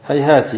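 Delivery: هيهات ending in a short "ti"; final ta with kasra. Shown as a demonstration. Teacher shows students the third ta vowelling, هيهات said "hayhaati". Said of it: "بتثليث التاء الفوقية".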